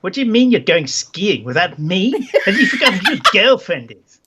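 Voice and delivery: Isabella's put-on accent, miffed; lightly accented girlfriend giving a telling-off; put-on female accent. Isabella scolds her boyfriend over skiing, put-on accent. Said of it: "this is the best accent ever".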